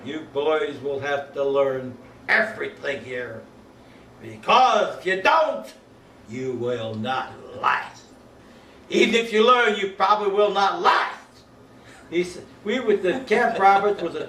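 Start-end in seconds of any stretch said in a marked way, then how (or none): 0.0-11.2 slow, deliberate drill-officer warning; a major warning new boys they won't last; stern officer. Retold or imitated. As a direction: lay down the law to raw recruits, slowly. Major lecturing recruits, pounding stick.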